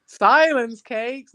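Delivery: repeating a strange phrase in disbelief; incredulous echo. Real, not acted. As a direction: drag out the puzzled question. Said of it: "Volk in there stirring the silence cakes".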